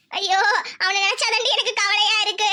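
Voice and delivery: words caught on a sob; mother crying over her son; tearful worry. Acted. Mother-in-law worries about her son.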